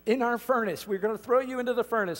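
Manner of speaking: threatening king. Retold or imitated. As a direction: thunder it out like a tyrant king. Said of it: "you have the king saying".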